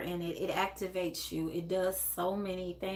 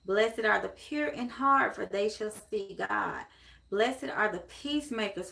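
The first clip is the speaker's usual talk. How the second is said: scripture reading. Real, not acted. Reads scripture aloud to viewers.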